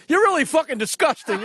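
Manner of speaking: a hint of Rodney Dangerfield; Rodney Dangerfield impression. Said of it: "Dangerfield turned to the little woman and said".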